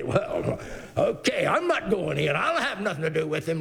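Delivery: sulky refusal, half laughing; mock pout with a chuckle. Preacher mimics the elder brother pouting outside, laughing. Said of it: "There comes that pouting business again".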